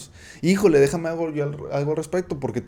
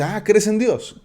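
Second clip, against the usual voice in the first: high, slow, mock-surprised question; lightly voiced Jesus, raising a mock eyebrow; 7 semitones higher, 4 dB louder, slower than usual. Jesus to the believer, mock-surprised. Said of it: "Y Jesús dice".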